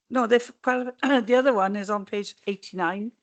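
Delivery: hoarse, fighting a frog in the throat. Real, not acted. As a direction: voice giving out, hoarse. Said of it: "My voice holds out".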